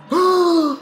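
loud, high gasp; shocked gasp. Real, not acted. Gamer killed without warning, loud shocked gasp. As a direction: gasp hard in disbelief. Player dies suddenly.

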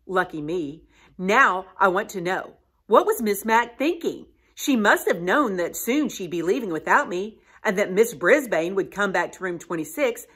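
lively read-aloud storytelling voice; story narration. Acted. Teacher reading a chapter aloud to students, storytelling voice.

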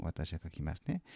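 usual speaking voice

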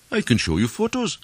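high, rising protest; insistent stranger. A narrator's reading. Stranger insisting against accusations.

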